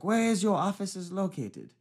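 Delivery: high, slow, insistent caller imitation; irate caller.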